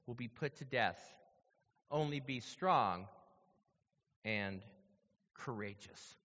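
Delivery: measured, solemn Bible reading; steady sermon reading voice; scripture reading. Acted. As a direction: read the passage with weight.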